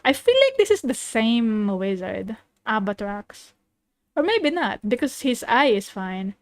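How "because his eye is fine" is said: ordinary talk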